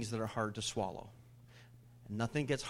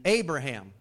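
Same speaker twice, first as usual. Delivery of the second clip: raised call to Abraham; calling out a name; 6 dB louder than usual. Acted. God calls Abraham to test him, calling out. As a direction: call his name out firmly.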